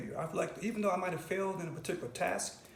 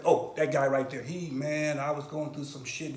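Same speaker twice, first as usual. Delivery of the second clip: imagined testimonial; 4 semitones lower, 6 dB louder than usual. Acted. Imagined grateful testimony about a helper.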